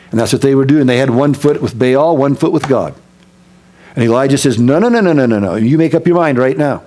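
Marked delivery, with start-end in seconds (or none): 4.6-6.8 rapid-fire run of no's, swooping down; impatient prophet calling a halt; insistent interruption. Acted. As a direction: cut them off and demand a decision. Acted prophet cuts off the waverers.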